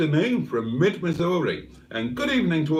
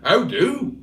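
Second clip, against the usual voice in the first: put-on southern accent; 5 semitones higher than usual. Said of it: "She's from down south".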